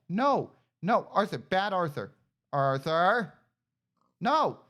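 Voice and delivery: loud stern scolding. Real, not acted. Player scolding pig Arthur for running, loud scold. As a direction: tell the pig off.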